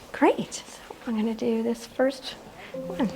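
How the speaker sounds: whispering under her breath; whispered aside. Real, not acted. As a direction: whisper it off-mic, just for the room. Aside away from the microphone.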